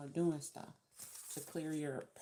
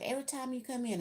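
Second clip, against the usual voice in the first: imitated neighbor; 8 semitones higher, faster than usual. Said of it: "And she be like".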